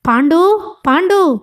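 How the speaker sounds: high-pitched call at narrator's volume; mock yell for help. A narrator's reading. Old man calls his servant Pandu, restrained acted yell. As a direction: call out urgently without real shouting. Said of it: "గొంతు చించుకొని అరిచాడాయన".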